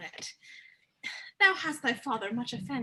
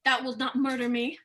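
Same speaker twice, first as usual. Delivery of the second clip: ordinary delivery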